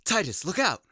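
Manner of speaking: high, loud warning; warning shout. Acted. Warning call in danger.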